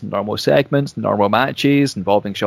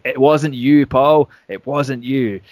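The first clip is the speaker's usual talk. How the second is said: firm, louder on Paul; stern; 2 semitones higher, 3 dB louder, slower than usual. Retold or imitated. Shane cutting off Paul London, stern and firm. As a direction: shut him down sternly. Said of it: "sternly saying".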